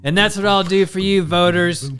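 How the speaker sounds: lightly hammed Biden reminiscing; Biden Corn Pop story. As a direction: ramble the Corn Pop tale like a folksy old pol. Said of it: "He just starts talking about corn pop".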